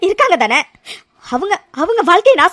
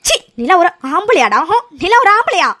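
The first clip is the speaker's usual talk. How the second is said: scornful anger; 2 semitones higher than usual. Acted. Aara to Aravind, scornful anger. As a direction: shame him as no real man. Angry confrontation.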